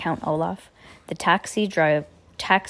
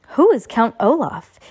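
quizzical; 4 semitones higher, 5 dB louder than usual. Acted. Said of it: "he asked quizzically".

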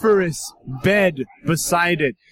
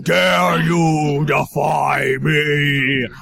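evil queen; 2 semitones lower than usual. Acted. GM voices the tempting table.

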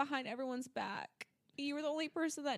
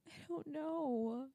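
starting to cry; 5 dB quieter, slower than usual. Real, not acted. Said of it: "You're crying".

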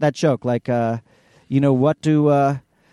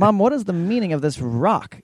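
higher-pitched exasperated question, retold; 6 semitones higher than usual. Son questioning his mom about a rock, exasperated. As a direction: imitate a baffled kid questioning a parent.

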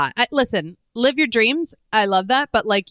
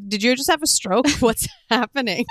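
mock bewildered; 3 semitones higher than usual. Joking reaction to rambling texts.

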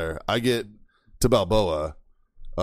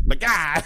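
high, sudden jabbing exclamation; imitated attack noise; 6 semitones higher, 3 dB louder than usual. Storyteller imitating classmate's pencil stab, high attack noise. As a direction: mimic a lunging stab with a noise.

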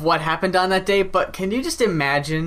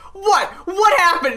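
mock surprise; 10 semitones higher, 3 dB louder than usual. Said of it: "He's like".

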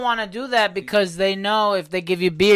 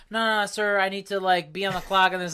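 higher-voiced imitation of a reluctant worker; mock timid worker; 4 semitones higher than usual. Worker refusing dad's beer, mock timid. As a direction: mimic a meek, polite refusal, pitched up.

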